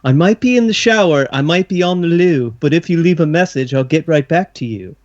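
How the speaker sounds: lightly put-on British answering-machine message; Missus Doubtfire. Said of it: "like, the Missus Doubtfire voice".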